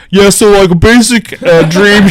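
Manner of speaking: high, loud doofy technician voice; mock doctor voice. Retelling the movie's sleep doctor, high mocking voice. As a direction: play the clueless dream technician. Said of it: "the guy ... is like".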